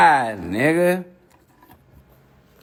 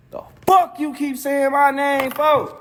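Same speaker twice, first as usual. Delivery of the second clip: higher, slow, hammed-up rant in someone else's voice; mock rapper voice; 9 semitones higher, 3 dB louder than usual. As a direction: play the angry rapper, drawn out high. Mocking a rapper yelling at him.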